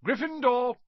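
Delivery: loud, high triumphant shout; hat shouting. Acted. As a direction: bellow the house across the hall. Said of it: "shouted the hat".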